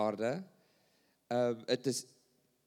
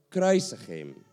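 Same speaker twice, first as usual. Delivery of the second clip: louder retold cry of the crowd; preacher voicing the crowd's louder cry; mock crowd shout; 3 semitones lower, 7 dB louder than usual. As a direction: call it out like the mob. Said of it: "schreeuwden ook".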